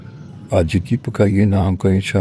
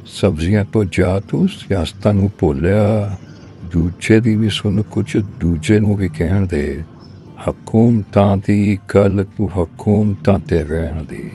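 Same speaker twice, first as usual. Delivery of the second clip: poem recital. Acted. Reciting a cook-and-master food poem to an audience, poem recital. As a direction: recite it in measured couplets, landing on each rhyme.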